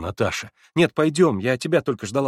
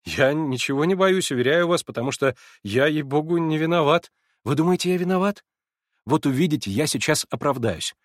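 a touch higher and louder, flustered; lightly voiced eager young man; 5 semitones higher, 3 dB louder than usual. A narrator's reading. Alyosha greeting the narrator at the door, lightly flustered. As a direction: bluster a little, unsure of welcome.

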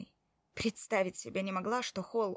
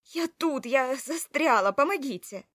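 higher, loud, urgent cries; trapped woman calling out to footsteps; shouting for help; 5 semitones higher, 8 dB louder than usual. Acted. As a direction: bang on the door and yell. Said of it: "закричала я во весь голос".

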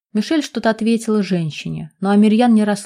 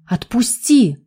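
a touch of a nervous shout; nervous cry; 3 semitones higher, 3 dB louder, much slower than usual. Acted. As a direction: cry out in alarm, mildly. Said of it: "раздался нервный крик девушки".

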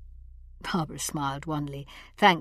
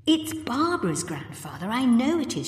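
much higher, eager insistence; exclaiming; 7 semitones higher than usual. A narrator's reading. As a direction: burst out with certainty. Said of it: "she exclaimed".

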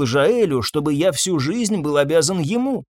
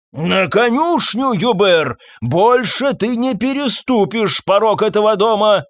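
angry banishing shout; 6 semitones higher than usual. Acted. Master to groom, angry banishing shout. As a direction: throw him out of the house for good.

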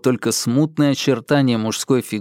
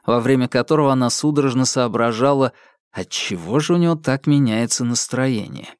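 plain reading voice

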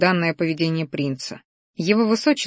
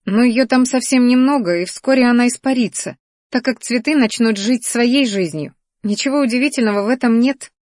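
higher, defensive explanation; dismissive huff; 6 semitones higher, 3 dB louder than usual. A narrator's reading. Girl downplaying her magic in the flowers, dismissive huff. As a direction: brush it off in a raised pitch. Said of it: "хмыкнула она".

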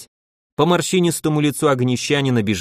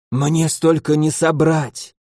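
hoarse; 3 semitones higher, slower than usual. Acted. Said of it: "хрипло сказал Якуб".

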